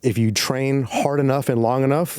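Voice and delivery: low, earnest motivational speech; motivational speech parody. Pretend. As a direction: deliver it like a serious hype speech. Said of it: "Jiu-jitsu speech right now".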